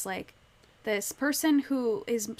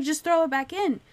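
higher and louder, a hammed-up frightened plea; mock panicked cry; 6 semitones higher, 6 dB louder than usual. Winnie begs Miles to free the gasping fish, mock panic. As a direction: beg him to let the fish go, half acted. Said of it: "she freaks out".

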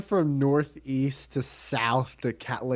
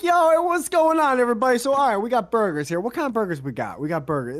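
mock podcast host greeting; 10 semitones higher, 5 dB louder, faster than usual. Greeting the cashier like a podcast audience, hammed-up host voice. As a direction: ham it up like a streamer greeting fans. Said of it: "and I'm like".

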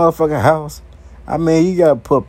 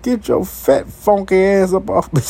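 crying toilet voice; 5 semitones higher than usual. Acted. Toilet begging the fat man to get off, high and pained. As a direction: whine like a toilet being crushed. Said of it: "I know that toilet crying like a motherfucker".

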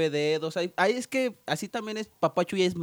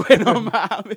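laughing; 7 dB louder, slower than usual. Real, not acted. Cracking up at friend's joke.

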